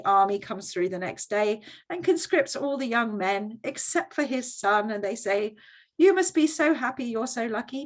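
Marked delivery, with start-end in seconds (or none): 6.0-7.9 higher, louder mock delight; gushing congratulation. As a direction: congratulate him like overjoyed villagers. Villagers voiced congratulating the farmer.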